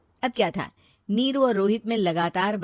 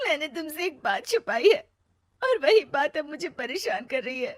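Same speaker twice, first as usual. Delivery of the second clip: higher, troubled confession; tearful confession; 7 semitones higher than usual. Acted. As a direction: confess with a heavy heart. (भारी मन से कबूलना)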